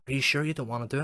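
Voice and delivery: mock pleading caller. Imitating the caller pleading to do the survey. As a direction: coax him into saying yes.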